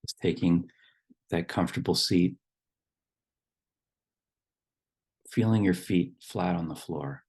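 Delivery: calm instructions with long pauses between phrases; guided meditation. Real, not acted. Leading the group to settle in their seats, guided meditation. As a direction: guide them gently into the body, leaving long silences.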